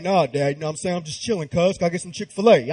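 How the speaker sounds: laid-back dude voice. Pretend. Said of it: "I'm expecting him to be like".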